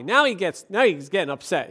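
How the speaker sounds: usual speaking voice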